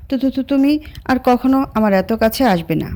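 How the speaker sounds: shy, flustered stammer on the opening words; a hint of a nervous stammer. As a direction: stumble over তো, তো, তো like a bashful girl. Shy girl stammers after the confession.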